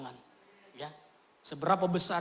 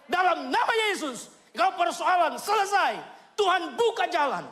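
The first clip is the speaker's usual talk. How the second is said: fiery preaching; 7 semitones higher, 5 dB louder than usual. Acted. Preacher exhorts the congregation to build ties with God, fiery. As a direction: preach it out with full force.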